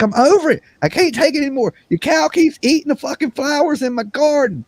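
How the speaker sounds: high, put-on voice complaining about the cow; mock high-pitched gripe; retold complaint. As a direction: squeak it out like a fed-up neighbor. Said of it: "I was like".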